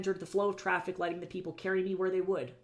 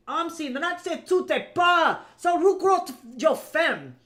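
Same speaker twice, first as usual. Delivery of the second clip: foreign scolding; 10 semitones higher, 8 dB louder, slower than usual. Acted. Foreigner scolding companion in language.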